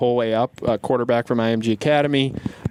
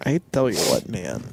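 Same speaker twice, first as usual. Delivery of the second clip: put-on Minnesota accent; 6 semitones lower than usual. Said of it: "Can't do it with your Minnesota accent".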